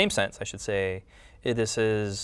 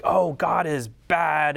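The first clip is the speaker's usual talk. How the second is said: slow, higher, louder devil; mock devil voice; 6 semitones higher, 5 dB louder, much slower than usual. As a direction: drawl it like a sly devil. Voicing the devil's lie.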